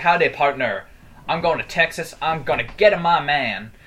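lightly imitated cowboy, mixed Asian-English accent. Retelling the stranger's catchphrases, mixed Asian-English accent. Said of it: "a weird mix between Asian accent and normal, like, English accent".

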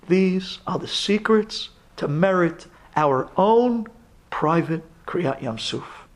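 normal talking voice

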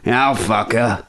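lightly voiced drunk English bloke; a hint of boozy English lad; drunk Englishman. Host mocking drunk English guys, lightly put-on drunk voice. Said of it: "English guys are so drunk".

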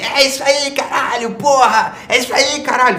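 street fan shouting. Retold or imitated. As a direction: play a rowdy stranger hollering praise with swear words. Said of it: "me encontram na rua e falam assim".

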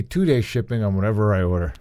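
hushed mock-reverent whisper. Host whispers mock praise of the billionaire's shipping. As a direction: whisper it like a secret blessing.

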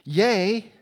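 a hammed-up bright little cheer, the reaction he did not have; mock cheerful cheer. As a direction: toss it off as a mock happy hooray. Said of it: "His response isn't".

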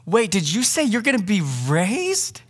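a lightly voiced curious disciple; voicing a curious disciple. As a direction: play the disciple asking keenly. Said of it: "they don't go".

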